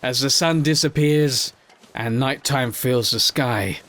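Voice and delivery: slow, dramatic trailer voice, fading to a whisper; mock movie-trailer narration. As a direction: announce it like an epic trailer.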